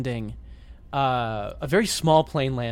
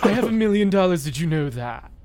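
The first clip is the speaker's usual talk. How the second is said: posh rich guy; 2 semitones higher, 4 dB louder than usual. Pretend. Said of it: "character we've invented".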